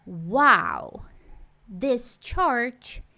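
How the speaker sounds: slow awed "Wow, this church is super tall."; admiring wow. Shown as a demonstration. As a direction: marvel at it slowly. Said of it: "você falaria assim".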